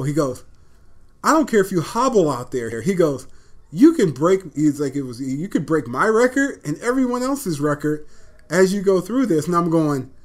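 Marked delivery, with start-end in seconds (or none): 1.2-2.8 raised, higher pushy coach voice; retold coach urging. Coach pushing injured player to play. 3.7-4.4 retold coach urging. Coach pushing injured player to play. 5.0-9.5 louder, higher insistent coach; retold coach urging. Coach pushing injured player to play.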